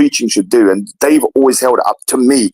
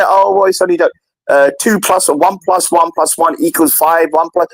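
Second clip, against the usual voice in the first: a higher, flippant mocking voice; mocking dismissal; 4 semitones higher than usual. Critics mocking the Trinity at Speaker's Corner, flippant sneer. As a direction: toss off the Trinity as a joke. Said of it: "this to me is mocking".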